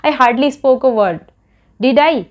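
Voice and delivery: very slow, each word spelled out for learners; slow model sentence. Shown as a demonstration. Teacher modelling a question tag for students, very slow and deliberate. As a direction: lay the sentence down word by word, then lift the tag. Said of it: "इसलिए मैंने बोला".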